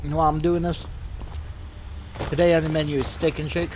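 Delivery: words round a mouthful; chewing mid sentence; chewing while talking. Real, not acted. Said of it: "I'm trying to eat".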